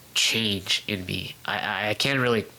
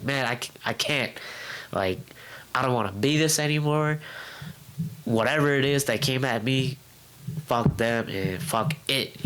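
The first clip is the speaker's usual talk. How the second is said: retold venting; 4 semitones higher than usual. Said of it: "I was going off".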